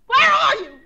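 loud call through the house. Acted. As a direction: shout it out into the empty house.

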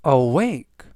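awake with the stress on wake. Shown as a demonstration. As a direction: land on the A after the W in awake. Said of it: "A의 강세가 있고요".

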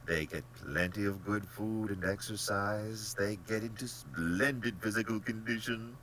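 lilting, genial reassurance; polished, pleasant general, lifting in pitch; most pleasant manner. A narrator's reading. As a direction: chide and reassure with airy pleasantness. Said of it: "said in his most pleasant manner".

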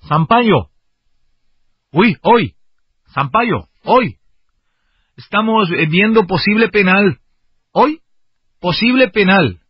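put-on Latin American accent. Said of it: "Te lo voy a hacer latino porque no me sale el colombiano".

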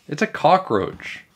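high, slow emphatic protest; indignant yell. A narrator's reading. Andrea to Miss Krupp, indignant yell. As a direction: spell it out in exasperation. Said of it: "Andrea actually yelled at a grown-up".

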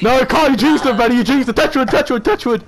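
excited teasing; hyped gamer bro. Real, not acted. Teasing friend about jinx.

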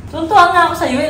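mock-cheerful scolding, "Tutuwa" thrown out fast; sarcastic, pushed harder. Real, not acted.

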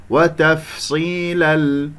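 وتفصيل slowly, tanween vanishing straight into a held ل; merging without ghunnah. Shown as a demonstration. Teacher showing the nun leaves no trace, slow clean merge into ل. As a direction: chant وتفصيل into ل with no hum. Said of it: "إدغام بغير غنة".

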